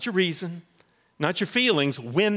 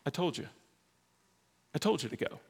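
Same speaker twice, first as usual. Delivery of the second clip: gently firm, then hushed for I told you to go; voicing God; 5 semitones higher than usual. God answering Ananias, light then hushed and firm. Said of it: "God says".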